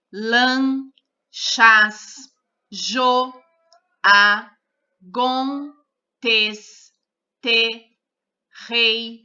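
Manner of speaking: each syllable said on its own with a pause after it, from "lã" to "miu"; syllables read aloud. Shown as a demonstration. Teacher reads the syllables aloud one by one for the class. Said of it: "Leia em voz alta as sílabas do quadro".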